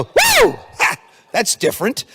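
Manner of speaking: sudden high, loud whoop of joy; mock delight. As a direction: cheer at yourself in the mirror.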